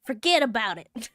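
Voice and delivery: put-on New York tough-guy accent; East Coast accent. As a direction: brush it off like a New York heavy. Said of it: "love the East Coast accent".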